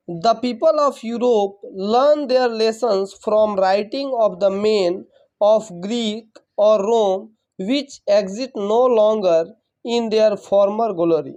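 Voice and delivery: measured dictation pace, spelling out the sense; slow, careful classroom read-aloud; slow textbook reading. Acted. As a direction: read each phrase slowly, word by word, for the class. Reads English text slowly.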